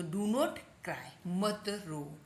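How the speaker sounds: slow, stretched teaching phrase; slow model. Shown as a demonstration. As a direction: model it slowly for learners. Teacher slowly models the translation. (धीरे-धीरे बोलकर सिखाते हुए)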